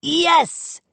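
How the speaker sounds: high, gleeful cheer; happily declaring. A narrator's reading. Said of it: "declared happily".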